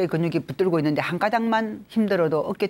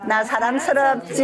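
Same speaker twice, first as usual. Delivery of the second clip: higher, drawn-out cheer of self-love; playful, stretched-out group-exercise call; cutesy self-praise; 6 semitones higher than usual. Shown as a demonstration. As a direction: sing out how lovable you are. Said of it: "다시 한번 합니다".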